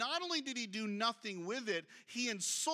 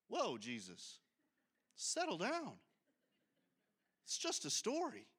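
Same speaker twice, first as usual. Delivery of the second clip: joking aside; 3 semitones lower, 4 dB quieter than usual. Real, not acted. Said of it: "this is some scary scripture".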